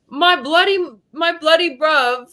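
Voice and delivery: put-on British, faltering; mock British bruv voice; British accent. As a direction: try out British slang in accent. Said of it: "have a conversation in British accent".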